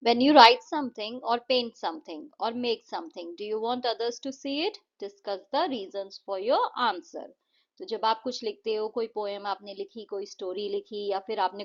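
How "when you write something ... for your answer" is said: slow, clear question reading; slow textbook read-out; reading a question aloud. Acted. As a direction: read it slowly so the class can follow. Reads textbook question slowly.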